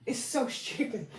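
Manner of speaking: softly to herself, trailing; quiet aside. Real, not acted. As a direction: say it under your breath. Repeats remark, first muttered.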